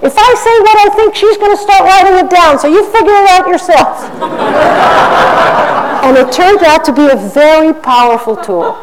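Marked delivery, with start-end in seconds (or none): 0.1-3.9 high, fast mock-nervous dodge; evasive mayor. Mayor dodging in front of the council, high and fast. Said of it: "He would say". 4.0-6.0 laugh. Real, not acted. Laughs at own story.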